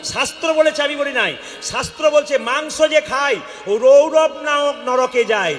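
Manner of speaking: high, ringing scriptural warning; forceful preaching. Real, not acted. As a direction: preach a solemn judgement to the crowd.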